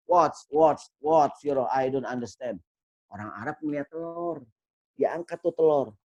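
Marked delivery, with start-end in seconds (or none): 0.1-2.6 a confused shopkeeper's what what; Indian shopkeeper. Retold or imitated. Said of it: "Kata India".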